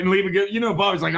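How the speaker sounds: ordinary talk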